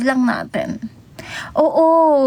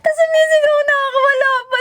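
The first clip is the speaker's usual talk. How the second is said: laughing; 11 semitones higher, faster than usual. Real, not acted. Laughing while retelling embarrassment.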